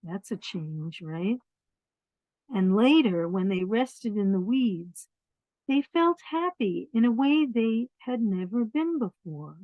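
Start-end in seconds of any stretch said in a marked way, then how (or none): 2.5-9.6 lively storybook reading; reading to children. A narrator's reading. Reading a picture book to children, lively storybook voice. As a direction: read it out warmly to the little ones.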